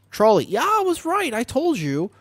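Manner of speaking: high gloating I-told-you-so; triumphant. Real, not acted. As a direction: crow about being right. Triumphant at being right.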